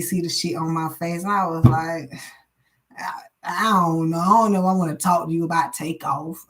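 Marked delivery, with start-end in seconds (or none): 3.0-6.4 retold crying. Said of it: "I was in the middle of the streets crying".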